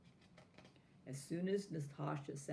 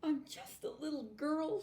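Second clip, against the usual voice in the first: high, tearful plea; a little girl crying it out; sobbing; 11 semitones higher than usual. A narrator's reading. Natasha sobbing to the doll, high and tearful. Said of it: "she said between sobs".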